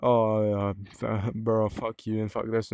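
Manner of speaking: mock insult broken by a laugh; joking banter. Shown as a demonstration. Showing viewers disrespect as banter, laughing mock insult. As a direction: swear at a mate in fun, laughing. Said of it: "if it's disrespectful as in banter".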